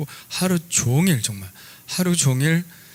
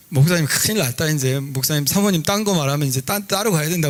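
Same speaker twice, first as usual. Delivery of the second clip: teasing; 3 semitones higher than usual. Retold or imitated. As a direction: imitate a colleague ribbing you, pitched up. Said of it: "막 나한테 놀리는 거예요".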